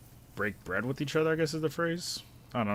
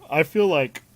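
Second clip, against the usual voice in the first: words stretched by a yawn; 7 semitones higher, 12 dB louder than usual. Real, not acted. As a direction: say it mid-yawn. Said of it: "sorry for the yawn".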